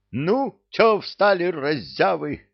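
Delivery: high, loud, slow bark. A narrator's reading. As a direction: bark at the lazy soldiers. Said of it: "рявкнул на солдат сержант".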